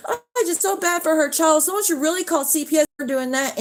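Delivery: high, sing-song mock sympathy; sneering at the ex-friends' fake pity; mocking fake concern. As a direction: parody their fake pity for the child. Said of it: "going live and saying".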